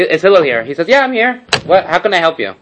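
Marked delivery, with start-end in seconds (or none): 0.0-0.6 lightly imitated cheeky caller; offhand, untitled summons; disrespectfully casual. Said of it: "He didn't say, "Harav Hillel". 0.9-2.5 higher-pitched obliging reply; agreeable, no trace of annoyance; nice, easygoing. Retold or imitated. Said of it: "Very nice, Anav. Easygoing".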